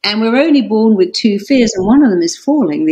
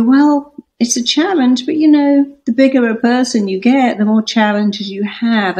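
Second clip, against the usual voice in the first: bright, lifted pitch, breezy and positive; upbeat reframe; 4 semitones higher than usual. Pretend. To her husband on a hard travel day, upbeat and lifted. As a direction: turn the bad day into a cheerful challenge. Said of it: "I could go".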